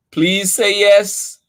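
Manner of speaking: high, slow pleading; begging. Acted. Charlie begs Mom to keep the dog, high slow plea. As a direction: beg Mom with everything you've got. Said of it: "begged Charlie".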